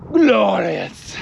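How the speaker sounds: hushed breathy whisper. Real, not acted. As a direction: whisper it in awe. Whispered awe at sunset.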